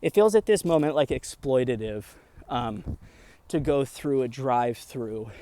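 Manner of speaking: breathless after climbing stairs; out of breath. Real, not acted. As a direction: push words out between short breaths. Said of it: "and talking real fast".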